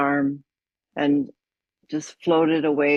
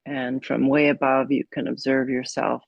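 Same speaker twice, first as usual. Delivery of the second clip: calm guided meditation with long pauses. Acted. Yoga teacher guiding a class to follow the breath, meditative. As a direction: settle them gently into mindfulness, phrase by phrase.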